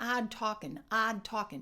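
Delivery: "Odd" with open ah, "talking" with aw; lot-cloth contrast. Shown as a demonstration. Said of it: "Did you hear the difference?".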